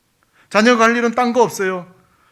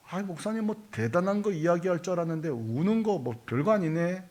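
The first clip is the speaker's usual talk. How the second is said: dismissive grumble; 3 semitones lower, 10 dB quieter than usual. Acted. Imagined dismissive listener.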